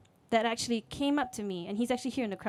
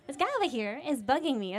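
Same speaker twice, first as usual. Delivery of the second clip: lightly put-on southern twang, higher; southern accent; 4 semitones higher than usual. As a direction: complain to an officer with a slight southern accent. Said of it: "I'm talking in a southern accent".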